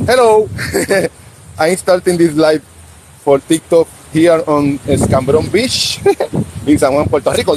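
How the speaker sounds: slow, deliberate English for foreign viewers; careful slow English. Real, not acted. Host greets English-speaking viewers, slow careful English. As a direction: spell it out slowly in English. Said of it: "para los que no sepan mucho español".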